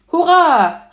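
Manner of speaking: loud, high hurrah; girl's exuberant shout; cheering. A narrator's reading. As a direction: cheer out jubilantly. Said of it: "rief Ponyhütchen".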